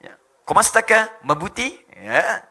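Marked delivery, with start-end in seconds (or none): 0.5-1.8 loud Tagalog-style greeting; mimicked Filipino accent. Indonesian greeting in Tagalog, mimicked Filipino accent. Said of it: "Tagalog, kayak orang Filipin".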